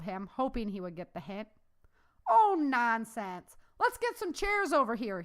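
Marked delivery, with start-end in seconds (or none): 2.3-5.2 high, loud call across the room; drawn out, then call out for chairs; calling to the waitress. A narrator's reading. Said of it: "he called to the waitress".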